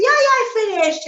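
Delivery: high, loud, fast breezy lie; child blurting a cheerful fib to his mother; eager fib. Acted. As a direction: toss off the lie quickly to get out and play. Boy lying to mama in story.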